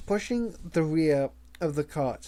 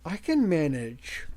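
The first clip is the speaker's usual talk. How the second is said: "I can manage" strained through gritted teeth. Acted. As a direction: squeeze the words out through clenched teeth. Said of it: "Her voice sounded like she was straining it through her teeth".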